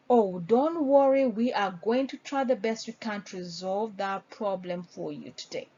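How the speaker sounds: calm, reassuring promise to help. Shown as a demonstration. Agent reassuring the customer with the broken microwave, calm. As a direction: soothe the worried customer. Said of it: "you can say something like".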